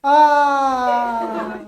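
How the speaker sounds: long, held dying "aah"; mock dying groan. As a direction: act out expiring on a drawn-out groan. मरते मरते क्या कर रही है. (मरते हुए लंबी "आ" का नाटक)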